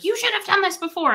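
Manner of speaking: retelling the mad gate agent's snap; imitating annoyed agent. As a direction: mimic the snippy gate agent. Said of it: "she was so mad at me".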